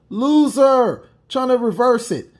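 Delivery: scornful jab; taunting loser. Real, not acted. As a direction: throw loser at her with scorn. Mocking taunt at woman.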